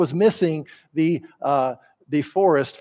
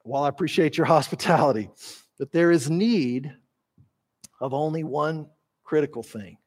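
affectionate, paternal; 2 semitones lower than usual. Acted. Jesus gently answering worried Martha, paternal and tender. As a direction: reassure her like a loving father. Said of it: "It's very affectionate. It's very paternal".

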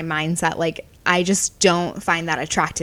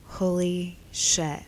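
1 mock stunned; 3 dB quieter, much slower than usual. Man's jaw drops.

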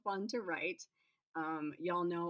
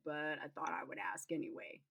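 soft whisper; 5 dB quieter than usual. Acted. Whispered aside, unvoiced.

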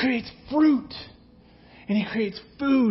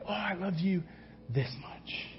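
put-on child's answer; 3 semitones lower, 12 dB quieter than usual. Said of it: "ask your kids".

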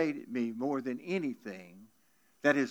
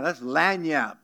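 Louisiana word; 5 dB louder, slower than usual. Shown as a demonstration. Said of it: "like we say in Louisiana".

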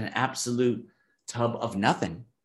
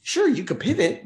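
mock wishy-washy; 10 semitones higher, 4 dB louder than usual. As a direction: mimic a half-hearted hope.

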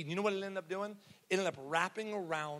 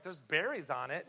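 a lightly put-on wife voice, not how she really talks; mock wife voice. Preacher quoting his wife about the weed, lightly mocking her voice. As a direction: tease the wife with a hint of a silly voice. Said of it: "she doesn't talk like that".

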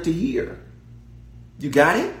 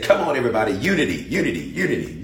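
mock soothing preacher; 4 semitones lower, faster than usual. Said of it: "It was the preacher that got up and said".

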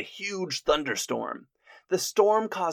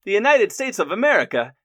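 loud, high, scoffing "United States of America" in a hammed-up Monty Python guard voice; mock-incredulous "United States of America" from a silly comedy guard; 6 semitones higher, 6 dB louder than usual. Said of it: "played out like a Monty Python skit".

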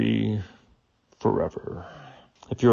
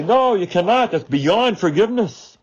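indignant refusal; 8 semitones higher than usual. Retold or imitated. People objecting, voiced.

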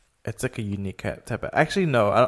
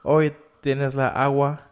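statement turned up like a question, higher; slow mock question-like Spanish lilt; imitated upspeak; 4 semitones higher, slower than usual. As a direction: mimic upspeak in Spanish, slowly. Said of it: "like, they're asking questions".

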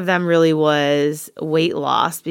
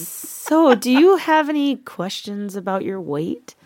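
higher-pitched mock-polite nurse; passive-aggressive imitation; 4 semitones higher than usual. Nurse asking a patient about weight, mock passive-aggressive. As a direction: imitate a nurse's pointedly careful question. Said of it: "He was a passive-aggressive jerk".

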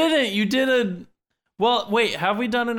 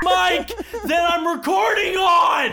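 yelling into a clipping mic; clipping distorted mic; 9 semitones higher than usual. Real, not acted. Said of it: "you're really clipping a lot".

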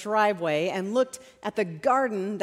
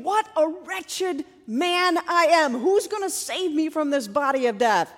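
higher, declaimed lament; Paul; 5 semitones higher than usual. Retold or imitated. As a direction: cry it out, drawing out the first words. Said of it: "he finishes by saying".

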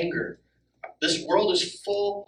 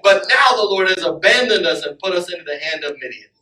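angry Gideon; 5 dB louder than usual. Retold or imitated. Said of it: "he's kinda angry when he's saying".

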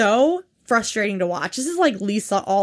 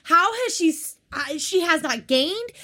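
incredulous; 6 semitones higher than usual. Real, not acted. Incredulous about same weight.

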